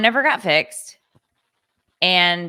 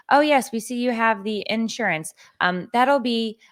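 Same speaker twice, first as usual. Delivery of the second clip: higher-pitched customer service imitation; mock phone agent; 6 semitones higher than usual. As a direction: lightly parody an agreeable call-centre agent.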